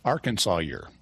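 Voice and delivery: Arkansas year said as AR-kən-saw-yer; older demonym. Shown as a demonstration. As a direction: stress the first syllable, end Arkansas year in "sawyer". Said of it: "You wanna tell me the older?".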